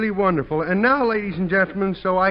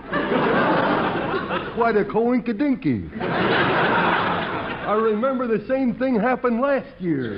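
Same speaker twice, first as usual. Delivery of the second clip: Clem the bumpkin; 3 semitones higher than usual. Acted. Clem the dim fireman talking to the audience, goofy and cheerful. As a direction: play a goofy rube pleased with himself.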